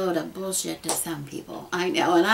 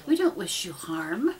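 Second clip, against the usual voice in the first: whispered reassurance; slower than usual. Real, not acted. Sincere pagan reassurance.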